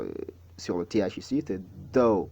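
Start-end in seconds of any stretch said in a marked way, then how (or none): 1.9-2.3 "though" with insistent voiced TH; correct pronunciation. Shown as a demonstration. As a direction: lean on the TH of "though", falling vowel. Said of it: "il y a une certaine insistance".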